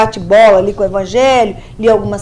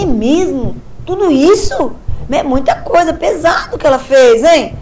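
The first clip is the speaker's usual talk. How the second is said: mock shock; 3 semitones higher than usual.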